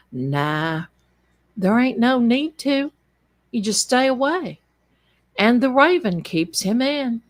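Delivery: put-on country officer's accent, lifting after the first word; Notso's accent. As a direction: wave it off in a small-town country accent. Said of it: "in his accent".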